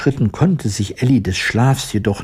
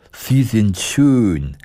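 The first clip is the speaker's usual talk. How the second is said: sighing; much slower than usual. Acted. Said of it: "seufzte der Scheuch".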